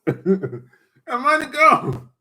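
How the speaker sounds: slow, drawn out through laughter; cracking up over the lost money; laughing. Real, not acted. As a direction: laugh the words out slowly. Repeats line, laughing the second time.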